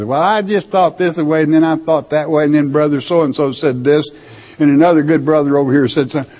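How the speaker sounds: a lightly voiced dithering believer, rushing on; wavering churchgoer. Preacher mimics a dithering churchgoer, lightly voiced and rushed. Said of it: "you wavering minds".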